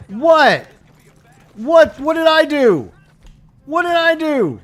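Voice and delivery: high, loud indignant yelling; furious disbelief at being shot at; outraged protest. Real, not acted. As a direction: demand answers from the shooters. Suddenly shot at by police.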